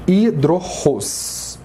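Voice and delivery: "hidrorros" slowed, final "ros" stressed. Shown as a demonstration. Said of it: "A sílaba mais forte é ros".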